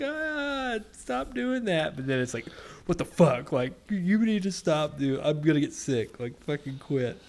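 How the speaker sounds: high, exasperated complaining, imitated; mock mad wife. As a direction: whine in protest like a fed-up partner. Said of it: "they get so mad".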